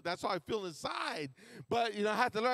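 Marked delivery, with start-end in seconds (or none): 0.0-1.3 emphatic slow shout. Real, not acted. Preacher to congregation, slow emphatic shout. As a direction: lean hard into the word inside.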